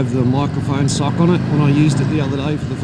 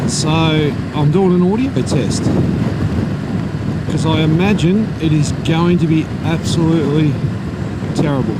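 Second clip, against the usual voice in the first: muffled under roaring wind; talking inside a motorcycle helmet. Real, not acted. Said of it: "I can hear a hell of a lot of wind noise in my helmet".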